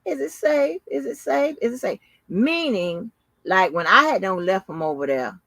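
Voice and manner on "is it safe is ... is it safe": passive aggressive mock. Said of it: "again with that passive aggressive shit".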